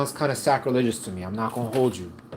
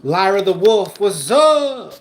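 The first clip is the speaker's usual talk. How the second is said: louder, higher, pumped-up greeting; hype shout-out; 7 semitones higher, 9 dB louder, slower than usual. Real, not acted. Greeting a viewer by name, loud and pumped. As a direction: call out the name like a hype man.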